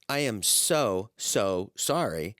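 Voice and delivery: drawn-out, earnest "so sorry"; slow apology. Retold or imitated. Young receptionist apologizing to a grieving wife, slow and earnest. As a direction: stretch the sorry out slowly, sincerely.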